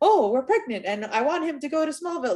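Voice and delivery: hammy, hammed-up line reading in a high voice. Mocking a voice actor's line in an animated film: imitating hammy Clark delivery. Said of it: "it sounded very hammy".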